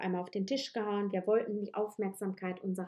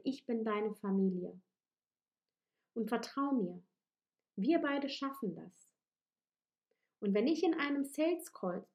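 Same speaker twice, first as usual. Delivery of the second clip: tender reassurance. Acted. Coach speaking as a loving parent to the listener's inner child, tender. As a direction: hold the inner child and soothe it.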